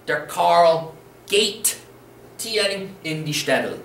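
"Der Karl geht" drawn out slowly, rising on "geht"; slow model answer. Shown as a demonstration. Teacher slowly revealing the answer to students, drawn out. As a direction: spell it out slowly for the learners. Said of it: "Conjugate the verb gehe correctly".

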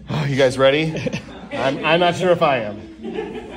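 laughing nervously. Real, not acted. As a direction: chuckle through it nervously. Nervous laugh before nonsense.

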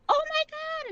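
a nurse floored to see him up; stunned gasp. Retold or imitated. Nurse sees Darren walk in.

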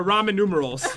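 "ramen numerals", Roman said like the noodle dish; "ramen numerals" with ramen in place of Roman; imitated mispronunciation. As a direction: quote the mistake "ramen numerals" back teasingly. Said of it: "that's what you called them that time".

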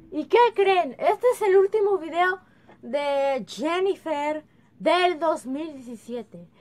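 loud excited yelling; yelling across the room. Real, not acted. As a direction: call out loud to the viewers. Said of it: "Perdón que estoy gritando".

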